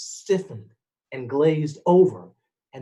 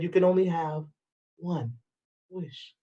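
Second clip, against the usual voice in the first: softer and softer, fading to near nothing; ominous fortune; 5 dB quieter than usual. Acted. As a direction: read the fortune like a grim verdict. Fortune text read ominously.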